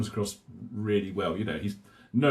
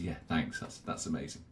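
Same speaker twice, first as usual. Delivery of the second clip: blissed out; 5 semitones lower, 8 dB quieter than usual. Retold or imitated. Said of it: "he's absolutely blissed out".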